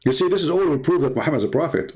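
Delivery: sarcastic. Acted. Sarcastic proof claim.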